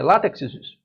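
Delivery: "látex, usus" emendado, com final extra repetido; plural errado de brincadeira. Shown as a demonstration. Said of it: "Não, não tem plural". (plural errado "látex, usus", como palavra única)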